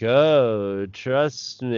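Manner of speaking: lightly voiced eerie droid, gliding vowels; a hint of sinister robot coaxing; creepy robot voice. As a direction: imitate an oddly creepy medical droid. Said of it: "the robot voice, you know".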